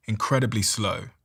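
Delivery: drawn-out, deliberate mentor delivery; slow right down like the mentor; imitating slow speech. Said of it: "it was like that".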